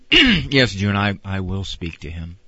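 low, composed TV-dad voice; Ward. Acted. Husband agreeing to speak to Beaver, calm and low. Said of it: "Ward never raised his voice".

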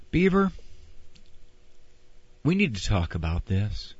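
gentle discipline, dropping low without raising the voice; Ward. Acted. Father confronting Beaver in his room, calm and unraised. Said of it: "Ward never raised his voice".

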